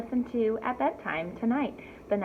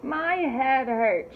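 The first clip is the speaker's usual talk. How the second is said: slow, louder, higher whiny moan; 4 semitones higher, 5 dB louder, much slower than usual.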